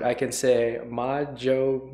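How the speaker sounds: ordinary talk, nothing marked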